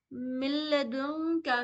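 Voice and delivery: मिल्लदुन with मीम merged into a doubled लाम; joined to lam. Shown as a demonstration. Tajweed teacher shows students the lam merge, slowly. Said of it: "मीम को नून से नहीं लाम से मिलाना है".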